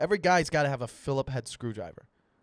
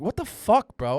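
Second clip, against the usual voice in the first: high, loud outraged yell; retold yelling; 6 semitones higher, 7 dB louder than usual. Owner to his dog as it wanders off, retold yelling. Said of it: "I was yelling at him".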